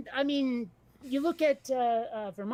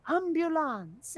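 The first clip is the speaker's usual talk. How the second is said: delicate French; 4 semitones higher, slower than usual. Retold or imitated. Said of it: "sounds delicate and gentle".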